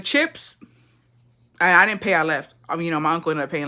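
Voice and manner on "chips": chirpy. Retold or imitated. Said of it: "I was like".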